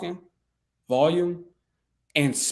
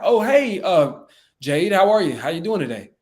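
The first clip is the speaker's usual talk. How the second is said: matching his energy; 3 dB louder than usual. Shown as a demonstration. Coach showing how to meet a seller's energy, upbeat. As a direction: greet the caller with lively energy. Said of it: "Meet his energy".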